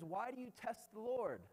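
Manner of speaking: high mock reproach; exasperated Moses. Moses to his complaining people, exasperated reproach. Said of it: "He says".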